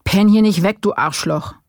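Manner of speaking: roaring at a suspect nodding off; bellowed insult. Acted. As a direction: yell at him to stay awake. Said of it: "brüllte Lang".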